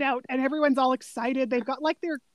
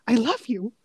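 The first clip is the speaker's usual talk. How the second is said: lightly voiced indignant Aussie, pitched up; mock indignant Australian; 4 semitones higher, 3 dB louder than usual. Retelling a movie scene to a friend, mock indignant Aussie voice. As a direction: scoff it in a put-on Aussie voice. Cedric's indignant retort retold.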